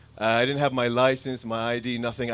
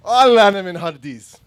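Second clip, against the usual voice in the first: laughing quote; 6 semitones higher, 12 dB louder, much faster than usual. Retold or imitated. Quoting a Saudi man, laughing.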